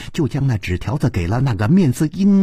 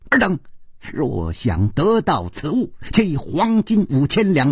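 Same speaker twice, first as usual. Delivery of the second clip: reading aloud. A narrator's reading. Old man reads the ransom note to others, declaimed aloud. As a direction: proclaim the ransom note, slowing grandly at the close. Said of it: "老者大声地念道".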